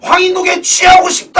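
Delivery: high, loud winner announcement; mock chart-show announcer. Music show host revealing the surprise number one, shouted announcement. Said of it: "이번 주 뮤직뱅크 일 위는".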